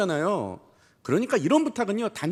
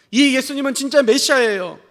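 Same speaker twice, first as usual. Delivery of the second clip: urgent, somewhat raised voice; imitated crying out; 3 semitones higher, 4 dB louder than usual. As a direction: plead the case as if it were the only chance, half-acted. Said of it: "소리치는 거예요". (절박하게 외치는 흉내)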